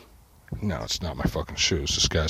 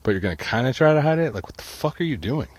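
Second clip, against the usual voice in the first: raised, heated disbelief at the thief; imitated angry confrontation; 2 semitones higher than usual. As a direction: chew him out like he's standing right there. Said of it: "I'm like".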